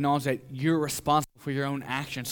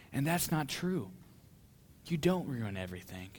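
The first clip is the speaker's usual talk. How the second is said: tender reassurance; 8 dB quieter than usual. Acted. Father apologizing to child for his lies, tender reassurance. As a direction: take back the hurt gently.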